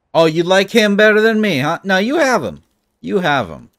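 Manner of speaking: high, loud mock-offended complaint; mock jealousy. Player to game bear and its rival, mock jealous outburst.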